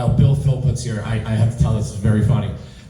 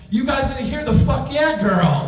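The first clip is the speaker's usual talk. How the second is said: retold protest; 12 semitones higher than usual. Retells standing up to protest in theater.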